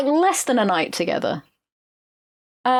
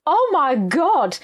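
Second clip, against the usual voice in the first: mock shocked; 5 semitones higher, slower than usual. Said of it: "she's like".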